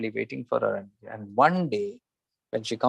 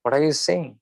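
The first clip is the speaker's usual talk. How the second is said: retold shock, a little higher; mildly startled disbelief, imitating the husband; 4 semitones higher than usual. Husband hears from the guru that she is his mother, mildly shocked. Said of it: "Now the husband is shocked".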